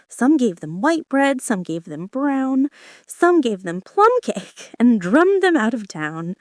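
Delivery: lightly lilting nursery rhyme recitation; reciting old song. A narrator's reading. Alice repeating an old song to herself, in a light lilt. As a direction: recite it like a rhyme, a touch singsong. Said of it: "repeating to herself ... the words of the old song".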